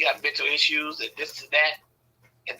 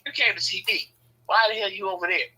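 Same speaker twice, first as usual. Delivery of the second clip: mom calling back; 5 semitones higher than usual. Retold or imitated. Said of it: "She'd be like".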